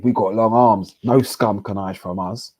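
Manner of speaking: a touch of Cockney gangster. Shown as a demonstration. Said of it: "I felt like reading that bit in a Cockney voice".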